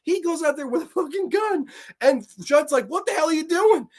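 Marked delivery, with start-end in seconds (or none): 2.9-3.9 high, incredulous, breaking into laughter; laughing mock outburst. Imitating Judd as the man comes with a gun, laughing. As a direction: imitate a baffled demand while cracking up.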